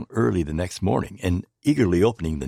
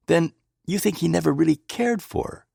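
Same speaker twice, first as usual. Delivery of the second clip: eager; 9 semitones higher than usual. A narrator's reading. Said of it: "I asked eagerly".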